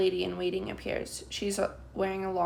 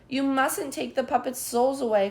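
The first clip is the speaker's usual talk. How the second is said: higher, louder protest; child calling out; 5 semitones higher, 5 dB louder than usual. A narrator's reading. Child protesting to the officer, calling out. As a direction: call out defiantly. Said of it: "calls another child".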